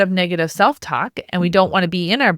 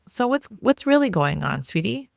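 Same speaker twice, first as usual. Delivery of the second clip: nice mom; 3 semitones higher, 5 dB quieter than usual. Shown as a demonstration. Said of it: "a nice mom, that's what she says".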